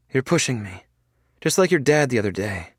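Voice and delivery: put-on a frail girl refusing surgery; voiced young woman. A narrator's reading.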